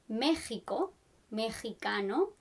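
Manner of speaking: "Mexico, mexicano" with a throaty h for X; X as Spanish j. Shown as a demonstration. Teacher showing a spelling exception, "Mexico, mexicano" with X as a throaty h. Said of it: "you write it with an X".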